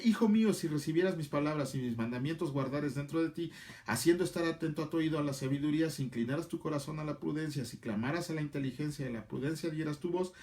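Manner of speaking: rapid-fire scripture reading; super fast reading. Real, not acted. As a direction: read the verses briskly, barely pausing. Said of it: "lo voy a leer súper rapidísimo".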